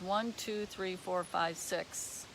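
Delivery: tally under your breath, dropping away; counting to oneself. Real, not acted. Presenter matching a viewer's scores to traits, softly to oneself. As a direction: trail into a very soft count. Counts through the list to herself.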